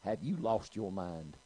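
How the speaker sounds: slow, straight-faced scolding; deadpan. Retold or imitated. Old lady asking doctor if he's crazy, deadpan. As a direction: ask it slowly with no joke showing. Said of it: "looked at him just deadpan, just a straight face".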